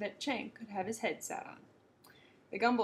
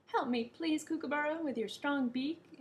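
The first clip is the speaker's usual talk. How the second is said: eager plea; 6 semitones higher than usual. Acted. Gumble asks kookaburra eagerly.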